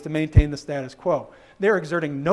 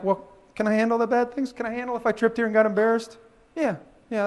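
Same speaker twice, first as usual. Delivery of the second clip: slightly raised self-questioning voice; weighing it up; 5 semitones higher than usual. Acted. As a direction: lightly act out talking yourself through a worry. Acted self-talk weighing a risk.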